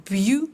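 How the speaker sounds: Beautiful stressed on the first syllable, BEAU-ti-ful; syllable count demo. Shown as a demonstration. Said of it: "how many syllables are there?".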